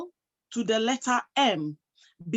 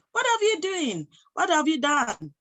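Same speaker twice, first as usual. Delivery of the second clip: amazed question; 5 semitones higher than usual. Retold or imitated. The same naysayers now amazed.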